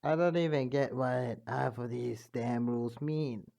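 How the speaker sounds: a retry in a changed timbre at normal pitch; King Dedede voice. Acted. A narrator retrying King Dedede's voice, changed timbre. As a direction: settle into the king's voice. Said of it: "remember how to do their voice".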